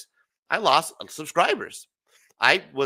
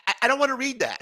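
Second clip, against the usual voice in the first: laughing; 8 semitones higher, faster than usual. Real, not acted.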